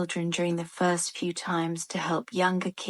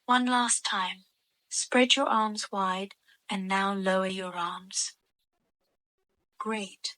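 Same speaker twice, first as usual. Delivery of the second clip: guided meditation. Real, not acted. Adult guiding children through stretches and long breaths, guided meditation voice. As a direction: lead gentle stretches, pausing between instructions. Leads children's relaxation exercise.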